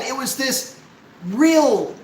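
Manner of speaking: ordinary delivery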